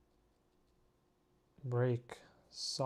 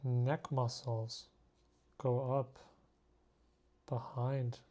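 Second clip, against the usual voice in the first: slow, terse word chunks with gaps; two-syllable phrases; slower than usual. Pretend. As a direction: dole out short phrases, pausing after each. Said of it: "I'm only speaking in two syllables now".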